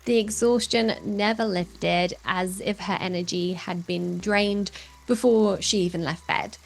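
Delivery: measured storytelling promo read; earnest narration introducing a guest's health story; dramatic voice-over. Acted. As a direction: read it like a documentary teaser, drawing the listener in.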